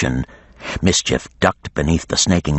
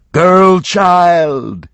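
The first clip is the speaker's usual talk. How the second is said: higher, louder dragon call; coaxing dragon; 12 semitones higher, 6 dB louder than usual. A narrator's reading. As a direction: lure her out like a beast. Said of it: "it said".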